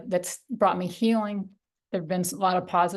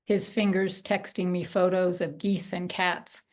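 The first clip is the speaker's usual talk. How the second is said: measured poetry reading with long pauses between lines; unhurried spoken poem, each image given room. Real, not acted. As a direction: read your grief poem slowly and deliberately, line by line. Reads own poem aloud.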